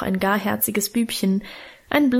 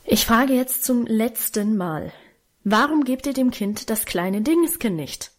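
ordinary delivery, nothing marked

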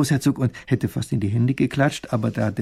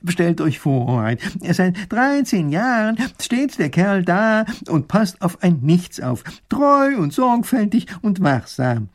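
slow, higher, louder astonishment; amazed telling; 7 semitones higher, 5 dB louder, slower than usual. Acted. Professor tells the duke in slow amazement. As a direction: marvel at it slowly.

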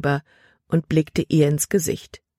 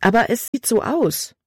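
higher, mildly upset retort; aufgebracht; 6 semitones higher than usual. A narrator's reading. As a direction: push back with a touch of indignation. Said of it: "Libby war nun aufgebracht". (leicht empört, mit höherer Stimme)

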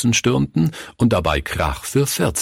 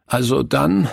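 seufzend; 6 semitones higher than usual. Acted. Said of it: "sagte Günther seufzend".

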